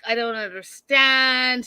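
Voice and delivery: lightly imitated tearful protest; mock crying. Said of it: "She's crying. She's like".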